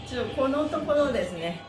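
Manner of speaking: usual speaking voice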